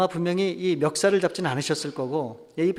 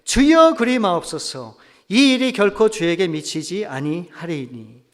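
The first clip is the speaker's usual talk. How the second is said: protesting plea; 4 dB louder, slower than usual. Retold or imitated. Peter objects to Jesus foretelling his death, mildly acted protest. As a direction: cry out the first word, then slow down in objection. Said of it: "항변하여 이르되".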